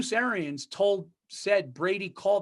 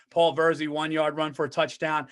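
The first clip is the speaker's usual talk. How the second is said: stadium announcer; 3 semitones lower than usual. Retold or imitated. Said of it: "they announced it in the loudspeaker".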